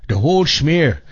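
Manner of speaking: hammed-up fake German accent; bad German accent. Host mimicking an old radio catchphrase, bad German accent. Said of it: "That's the worst German accent".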